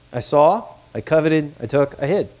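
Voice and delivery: flat, factual listing of sins; matter of fact. Shown as a demonstration. Preacher showing Achan's matter-of-fact confession, plain listing. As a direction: read it off like a checklist. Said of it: "It's pretty matter of fact".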